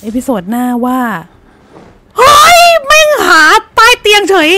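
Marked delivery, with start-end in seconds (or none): 2.2-4.5 high frantic cry of fear; terrified shout. Real, not acted. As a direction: shriek as it finds the hiding spot. Monster searches under bed. (ร้องลั่นด้วยความกลัว)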